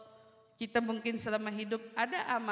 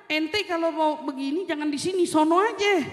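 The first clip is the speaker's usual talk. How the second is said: louder, blunt Betawi-style telling off; blunt rebuke; 3 semitones higher, 7 dB louder than usual. Retold or imitated. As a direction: shove them off bluntly, no politeness. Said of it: "Bukan bilangnya jangan". (usiran kasar dan keras)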